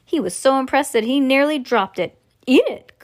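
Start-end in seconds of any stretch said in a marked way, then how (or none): 2.5-2.9 high, loud command; sudden storybook outburst; excited shout. A narrator's reading. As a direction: shout it eagerly. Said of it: "shouted Mister Wonka".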